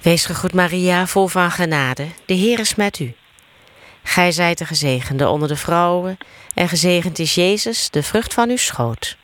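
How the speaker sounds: steady chant-like Hail Mary; prayer recitation. Real, not acted. Leading the Hail Mary for others to answer, steady prayer recitation. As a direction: recite in an even, practised cadence.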